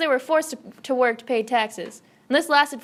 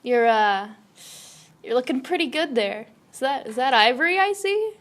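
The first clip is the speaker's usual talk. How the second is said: creepy flirt; 2 semitones lower than usual. Acted.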